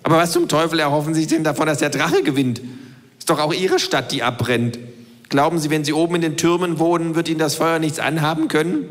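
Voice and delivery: the know-it-all kangaroo lecturing. Acted. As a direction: voice the kangaroo, lightly. Kangaroo keeps ranting.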